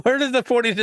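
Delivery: puzzled retort. Retold or imitated. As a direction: replay your own baffled reaction with a laugh in it. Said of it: "I'm like".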